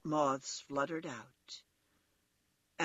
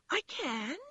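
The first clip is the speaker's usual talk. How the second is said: high little rabbit voice; toy rabbit; 9 semitones higher than usual. A narrator's reading. Toy rabbit answers the wild rabbit's doubt, high and insistent. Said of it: "said the little rabbit".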